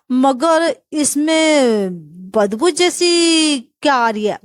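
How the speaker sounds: slow suspicious question; suspicious sniff. Acted. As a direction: linger on it, doubting the smell.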